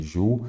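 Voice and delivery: juízes broken up as ju - í - zes; split into syllables. Shown as a demonstration. Teacher asking students about accents, syllable by syllable. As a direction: pause between each syllable of juízes. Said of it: "você já separa também em sílabas".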